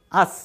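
আস said clearly as "aas"; suffix pronounced. Shown as a demonstration. Teacher showing students the suffix: আস said clearly. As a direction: give the ending আস a clear, careful teaching voice. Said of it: "তখন সেই উচ্চারণটা হবে".

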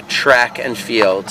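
usual speaking voice

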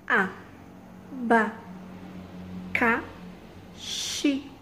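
"A, ba, ca, xi" broken into slow, separate syllables; teacher splitting "abacaxi"; counting syllables aloud. Shown as a demonstration. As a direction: count along with the kids. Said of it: "contem comigo".

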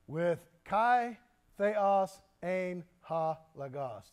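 slow, careful Greek, "Kai Theos Ein Ha Logos" with "Theos" near the front; Greek pronunciation. Shown as a demonstration. Teacher reads the true Greek word order to the class, slow. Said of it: "that's the way it's written".

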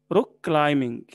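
"كلايمينج" as cly-ming, with no B; silent B. Shown as a demonstration. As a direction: drop the B after M in "كلايمينج". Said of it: "وما بننطقش البي".

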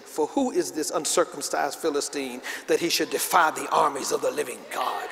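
"who is this uncircumcised Philistine" said low and even as a statement; declaration. Acted. David defying the Philistine, making a declaration. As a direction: state "For who is this" firmly, without questioning lift. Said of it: "to him making a declaration".

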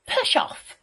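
high, rude piggy shout. A narrator's reading. Little pig to the wolf at the door, shouting. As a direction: yell it high to send him away. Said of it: "shouted the pig".

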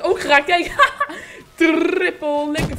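loud, high burst of hype after a triple kill; excited shout. Real, not acted. Gamer celebrating a triple kill, shouting with excitement. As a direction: yell it out, thrilled by the hit.

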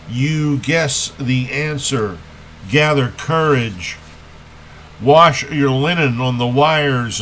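slow, emphatic poetry reading with measured pauses; poem recitation. Acted. Poet laureate reads a Kenneth Patchen poem to listeners, solemn recitation. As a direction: recite it deliberately, letting the line endings stretch.

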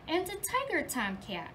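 lively storybook reading for little ones; reading to children. Acted. Teacher reading The Big Red Barn to her class, lively storybook voice. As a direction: read it like story time in class. Teacher reads picture book aloud.

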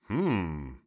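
drawn-out pondering hum; musing to himself. A narrator's reading. Fox considering the piglet's suggestion, musing. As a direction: hum it while weighing the idea. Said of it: "the fox said to himself".

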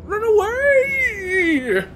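very high, long drawn-out wail; hammed-up high cry of flight; mock retreat cry. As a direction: call it out in a stretched falsetto.

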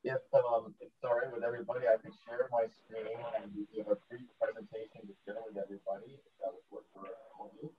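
muffled, garbled bad connection; underwater. Real, not acted. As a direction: talk as if through water. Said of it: "you sound a little bit underwater".

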